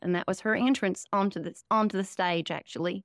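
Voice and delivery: put-on folksy Southern accent, rambling along; Southern parody character. Comedian as her Southern MAGA character explaining herself, Southern parody voice.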